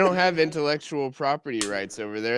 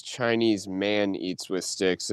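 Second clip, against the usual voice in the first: slow quoted title; 6 semitones lower, 5 dB quieter, much slower than usual. Retold or imitated. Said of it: "I think it was".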